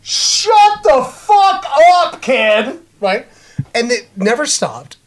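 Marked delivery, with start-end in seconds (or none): 0.0-2.8 mock furious yell. Moviegoer yelling at a noisy kid, mock fury. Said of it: "and I'm just like".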